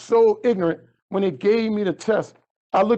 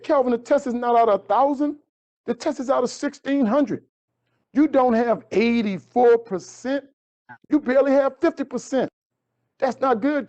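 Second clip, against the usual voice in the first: a hint of a surprised teacher, pitched higher; lightly voiced teacher; 5 semitones higher than usual. Teacher Miss V reacting to Kelvin's score, lightly voiced higher.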